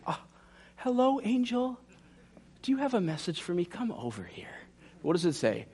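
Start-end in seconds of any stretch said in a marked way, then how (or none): 0.1-4.5 mock casual greeting. Mock shepherd greeting angel.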